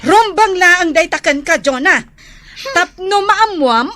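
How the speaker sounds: loud, stern lecture; stern scolding. Acted. Older sister lecturing Jonah about his debt, loud and stern. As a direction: lay down the law to him.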